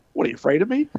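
put-on brash teen daring the coach; cocky taunt. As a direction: needle him like a cocky kid. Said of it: "I was Mister Everybody".

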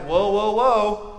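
lightly voiced stiff churchgoer; a touch of a prim church critic; mock religious scold. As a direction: scold with mild disapproval. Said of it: "those that are just stuck in their ways like".

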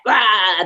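imitated growl of anger; mock outburst, a wordless "ah"; angry roar. Bracing for an angry patient, imitated angry roar. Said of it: "that energy of anger".

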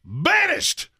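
high, drawn-out theatrical verdict; mock banishment decree. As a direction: pronounce a hammed-up royal ban, stretching the words. Mock decree banning the show.

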